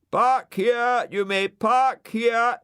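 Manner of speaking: high, loud, slow loudspeaker come-on. Acted. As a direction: coax a driver over the speaker. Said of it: "said the loudspeaker to Brian".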